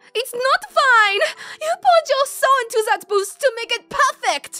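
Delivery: very high, overexcited, worked-up gushing voice. Voicing an upset friend over a destroyed booth: excited, worked-up character voice. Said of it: "please don't get so excited about it".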